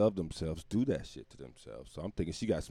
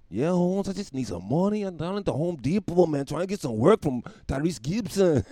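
put-on higher, laid-back California Mexican accent; 8 semitones higher, 4 dB louder than usual. Day laborer outside Home Depot asking for work, California Mexican accent. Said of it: "I turned him into a, a California Mexican".

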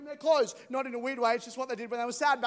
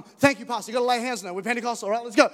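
louder, eager hurrying father; grateful father rushing the pastor to his house; 6 dB louder, faster than usual. Pretend. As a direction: hustle him out the door. Jairus hurrying Jesus along.

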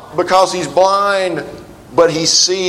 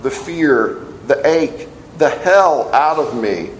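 reading a quote. Acted.

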